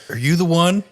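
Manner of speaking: high, loud incredulous question; retold accusing realisation. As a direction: act out the penny dropping, pitch leaping up. Listener voices the dawning realisation.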